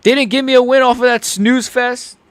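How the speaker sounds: high, loud, put-on frustration; imitating an angry fighter. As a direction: act out a sore, angry fighter venting. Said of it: "He's, like, angry".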